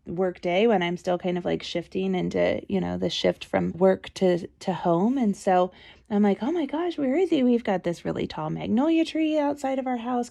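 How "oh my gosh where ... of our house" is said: high-pitched retold worry; mock alarm. Mother wondering where her son is, mildly alarmed. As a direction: wonder aloud with mild alarm.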